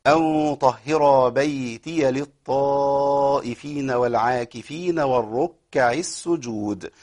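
very slow melodic tajweed chant; Quran recitation. Shown as a demonstration. Teacher chanting the verse to show the stops, slow recitation. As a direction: draw every vowel out in recitation.

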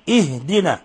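اهدنا with a clear initial i; correct opening kasra. Shown as a demonstration. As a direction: model ihdina, starting on i. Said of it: "اهدنا وليس أهدنا".

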